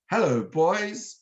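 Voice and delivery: slow, put-on Queen's English greeting; best Queen's English. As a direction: imitate a not-quite-convincing Queen's English accent. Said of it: "in his best Queen's English".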